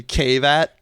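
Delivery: deliberately literal Cave At; joke mispronunciation. Shown as a demonstration. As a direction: CAVE AT as two separate English words, "cave" plus "at". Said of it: "you've been mispronouncing the movie".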